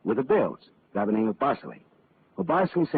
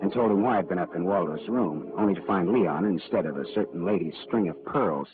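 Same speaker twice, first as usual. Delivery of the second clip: dry, measured voiceover telling the case; hard-boiled detective narration. A narrator's reading. Detective Marlowe narrating his case to the listener, hard-boiled voiceover. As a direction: narrate it like a tired private eye looking back.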